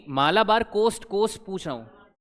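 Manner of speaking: slow, stressed "Malabar coast"; emphatic correction. Real, not acted. Teacher correcting students' answer about the coast, emphatic correction. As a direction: stretch out "Malabar coast", then repeat "coast" to insist.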